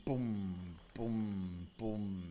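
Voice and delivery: soft low booms, each falling; booming footsteps. Shown as a demonstration. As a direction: voice three distant heavy footsteps. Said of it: "you hear another three boom".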